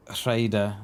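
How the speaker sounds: Rhaegar said as RAY-der. Shown as a demonstration. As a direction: Rhaegar with stress on the first syllable. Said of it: "it's pronounced".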